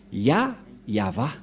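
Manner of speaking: Ya first, then whole Yahva; Yahva pronunciation. Shown as a demonstration. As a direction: build Yahva up from Ya. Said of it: "le nom de Yahva prononcé".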